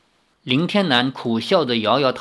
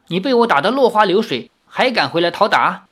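taunting; 4 semitones higher than usual. Acted. Girl taunts.

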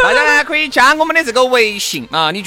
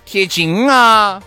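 slow clear; much slower than usual. Shown as a demonstration. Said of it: "贴啥子".

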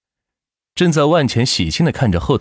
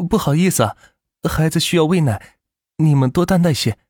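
higher, lightly voiced woman; apologetic young mother; 5 semitones higher than usual. Mother excusing breastfeeding in the car, apologetic. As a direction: politely ask their pardon.

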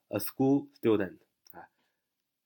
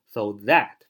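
"that" in full, stressed form; citation-style "so that", strong THAT; 2 semitones lower, 5 dB louder than usual. Shown as a demonstration. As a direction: read "so that" with weight on THAT. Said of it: "重读是可以的".

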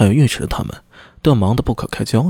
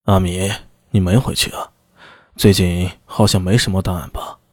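low, unhurried official; a hint of a senior officer's casual authority; lightly voiced magistrate; 6 semitones lower than usual. Magistrate asking his officer why he hasn't gone home, lightly voiced and low.

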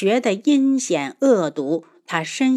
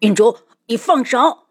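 louder desperate cry, not full-out; strained shout; 3 semitones higher, 5 dB louder than usual. A narrator's reading. Yunchuan as she cuts her own neck, desperate shout. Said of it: "云川说的声嘶力竭".

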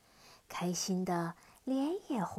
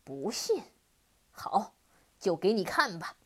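demon roar; 2 semitones lower than usual. Acted. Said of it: "大吼一声说".

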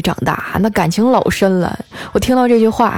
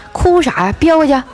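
higher-pitched exasperated order; stern scolding; 7 semitones higher than usual. Acted. Boyfriend to girlfriend about to cry, stern. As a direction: act out a fed-up boyfriend. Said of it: "继续说".

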